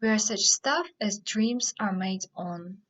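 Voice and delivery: measured farewell speech, pausing between phrases; understated theatrical monologue reading; dramatic verse recitation. Acted. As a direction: recite it phrase by phrase, leaning on key words. Recites Prospero's speech after introduction.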